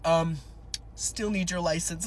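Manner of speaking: lightly voiced traffic cop, low; cop impression. Officer reminds crying driver, light cop impression. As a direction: lightly play a patient patrol officer. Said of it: "my cop impression".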